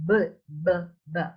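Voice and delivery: "b" as short lip pops; isolated bilabial B. Shown as a demonstration. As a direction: pop "b" off both lips, separately. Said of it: "B is bilabial".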